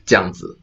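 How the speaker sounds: 这样子 as two syllables, jiang zi; contracted. Shown as a demonstration. Reading out the sauce plus purple spelling, 这样子 as jiang zi. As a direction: merge zhe yang into jiang in 这样子. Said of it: "when we say it really fast".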